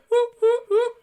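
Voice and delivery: high, loud whooping cheer; excited cheer. Real, not acted. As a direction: cheer it out in triumph. Celebrating finishing the project.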